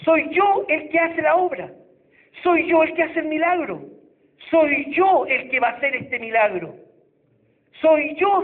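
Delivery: lightly voiced Jesus correcting the proud believer; voice of the Lord. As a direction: proclaim it as the Lord speaking. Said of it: "Y el Señor nos dice".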